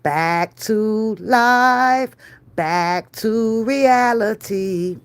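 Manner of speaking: very slow, drawn-out deflated words; resigned sigh. Retold or imitated. Telling viewers how she left the dealer, slow and resigned. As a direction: let it sink back to reality. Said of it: "I had to finally just like".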